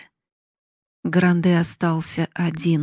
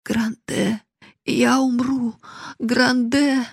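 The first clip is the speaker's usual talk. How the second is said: mild moan; 5 semitones higher, slower than usual. Acted. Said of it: "простонала бедная старушка".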